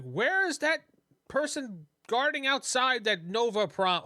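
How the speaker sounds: high, drawn-out demanding question; agitated woman. Acted. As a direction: play a woman urgently hunting someone. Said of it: "she's like".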